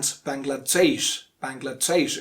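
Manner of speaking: Bangladesh ending in DAYSH; second correct variant. Shown as a demonstration. Teacher giving the other accepted way, correct Bangladesh. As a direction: say "Bangladesh" with a short middle and DAYSH at the end. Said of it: "pronounced in two different ways".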